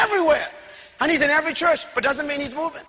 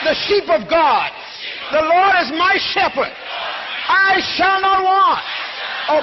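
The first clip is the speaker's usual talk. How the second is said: full-force preaching. Acted. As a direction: drive the congregation to shout it back. Preacher in full call-and-response.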